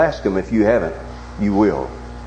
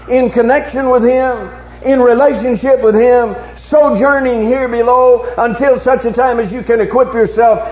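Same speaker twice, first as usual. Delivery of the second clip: raised, ringing pulpit challenge; impassioned sermon challenge to the congregation; forceful preaching; 12 semitones higher, 5 dB louder than usual. Real, not acted. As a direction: preach it out with driving, sustained emphasis.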